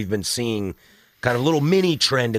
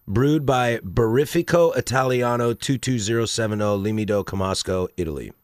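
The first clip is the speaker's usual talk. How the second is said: hammed-up Italian accent on the brewery name; reading a label in a bad fake Italian accent; mock Italian accent. Co-host listens as he reads the label, mock Italian accent. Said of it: "you're just trying to do the accent".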